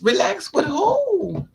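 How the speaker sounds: high, slow, incredulous squeal; mock outrage. She answers the man telling her to relax, high incredulous squeal. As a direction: squeal it high and drawn out in disbelief.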